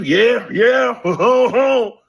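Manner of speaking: high, loud laughing cheer; mock cheering laugh. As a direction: imitate men whooping and laughing. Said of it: "There's men too".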